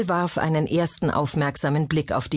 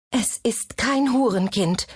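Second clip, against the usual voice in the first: put-on high, clear girl's voice summoning strength; 7 semitones higher than usual. A narrator's reading. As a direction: gather your strength and say it clearly, high-pitched. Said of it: "wandte sich mit klarer Stimme an Rachel".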